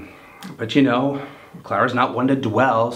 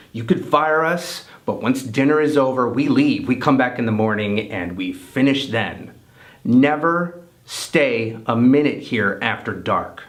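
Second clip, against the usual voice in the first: retold ultimatum, raised and emphatic; firm ultimatum; 2 semitones higher, 4 dB louder than usual. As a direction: lay down the rule to the bosses.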